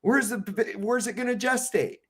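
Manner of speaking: lightly voiced fed-up rebel; exasperated objection. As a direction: stammer out disbelief. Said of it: "he goes".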